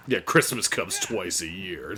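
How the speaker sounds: low, slow trailer voice; horror trailer voice. Pretend. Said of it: "trailer voice".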